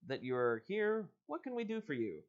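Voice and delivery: reading the book's dialogue aloud; story reading. Acted. Host reading a choose-your-own-adventure to listeners, storyteller voice. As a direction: read it like an adventure book. Reads the man's lines aloud.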